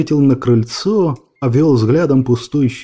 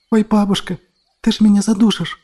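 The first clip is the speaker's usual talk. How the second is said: lightly voiced little girl, laughing protest; girl exclaiming; 7 semitones higher than usual. A narrator's reading. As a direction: squeal as grandma hugs too tight. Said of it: "воскликнула Таня".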